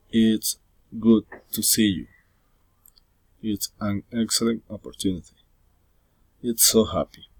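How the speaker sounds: exclamations falling at the end, down on "happy"; falling intonation. Shown as a demonstration. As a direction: let "you" and "happy" drop. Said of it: "Falling intonation".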